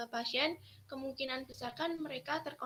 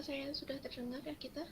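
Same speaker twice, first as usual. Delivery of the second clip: faint, still not carrying over the call; asking too softly to be heard; barely audible; 6 dB quieter than usual. Real, not acted.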